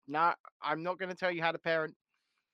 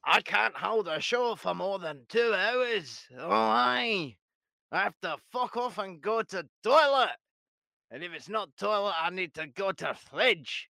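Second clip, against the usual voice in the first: mock co-host voice; 3 semitones higher than usual. Mocking absent co-host's habits.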